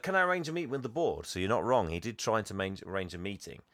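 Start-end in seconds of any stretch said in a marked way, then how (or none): 0.0-1.2 Jack asking. Retold or imitated. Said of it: "he's like".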